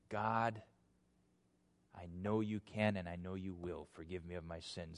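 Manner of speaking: soft, low plea for forgiveness; humble prayer. Acted. David prays after his sin, soft and humble. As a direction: pray quietly and trustingly, voice dropped low. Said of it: "And yet David said".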